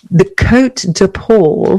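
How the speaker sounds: slow, exaggerated French accent. Shown as a demonstration. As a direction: say it the French way, slowly. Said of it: "Do you see my lovely French accent".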